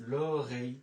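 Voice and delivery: French word l'oreille spelled out; French demo. Shown as a demonstration. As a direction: say লো রেই as French l'oreille, lo-ray. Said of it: "লো রেই মানে হচ্ছে কান".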